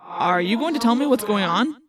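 demanding question with an echo; distant, resonant telepathic voice; echoing thought-speech. A narrator's reading. Jake asking his friend what's going on, echoing thought-speech.

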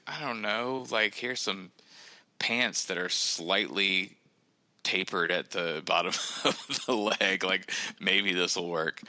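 lightly voiced parent, drawing words out; imitating hesitant parents. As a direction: play a parent unsure what to offer. Voices parents offering old clothes.

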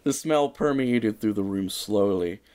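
dramatic storybook narration; story narration. A narrator's reading. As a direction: read it like a mock-epic ending. Reads story ending dramatically.

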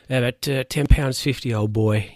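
lightly acted posh British gent; posh British bidder. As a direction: imitate a posh Brit bidding at auction. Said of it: "Like, he's real posh".

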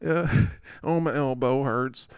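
lightly whined injured player; S Barkley. Acted. Injured player complaining about an elbow, mock whining. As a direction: moan a little, mock-hurt. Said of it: "S Barkley".

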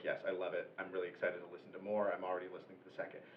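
low, soft retelling of a supportive brother; retold sweet brother. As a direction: quote him gently, tucked low. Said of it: "my brother was very sweet".

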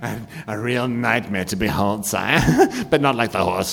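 fawning minion, eager to please; lightly voiced sniveling servant; groveling henchman.

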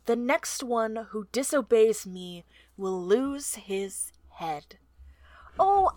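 reading a villain speech with menace; a hint of a gloating villain; slow theatrical villain menace. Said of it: "This is such a good villain speech".

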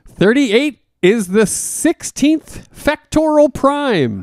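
slow, sultry luring voice; seductive voice. Acted. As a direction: lure them in, slow and sultry. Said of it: "luring, sexy voice guy".

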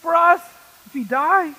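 high, loud, frantic cry over the storm; panicked yell. Retold or imitated. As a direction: shout it at Jesus as if drowning. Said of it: "I was yelling at Jesus".

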